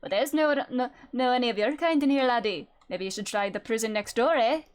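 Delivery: Shrek-like Scottish governor; put-on gruff Scottish dismissal; Scottish accent. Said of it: "I'll thank Shrek for my accent".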